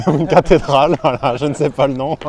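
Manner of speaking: laughing through the words; chuckling while speaking. Real, not acted. Laughs at not knowing name.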